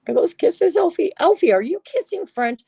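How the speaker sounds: high, loud teasing; playful tease. Real, not acted. Teasing a chatter about French kisses, loud and high. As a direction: tease him, sing-song and bright.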